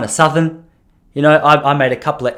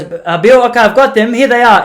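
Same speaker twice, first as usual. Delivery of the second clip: higher, louder mock grandma; raised-voice impersonated grandma; obliging grandmother; 9 semitones higher, 8 dB louder than usual. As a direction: answer back as the put-upon wife. Grandmother answers the shoe order.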